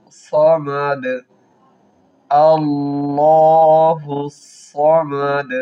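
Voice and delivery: সমাদ stopped with a bounced d; qalqala on samad. Shown as a demonstration. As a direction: end সমাদ on an echoing d. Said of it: "ডালের উপর সাকিন দিয়ে কলকলা করব".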